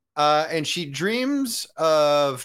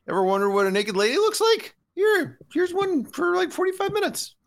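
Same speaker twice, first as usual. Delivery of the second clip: leering director. Retold or imitated. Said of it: "the director is just like".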